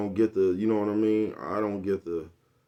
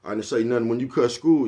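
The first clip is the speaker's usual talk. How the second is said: deflecting comeback; 4 semitones higher, 7 dB louder than usual. Retold or imitated. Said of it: "tell you some shit".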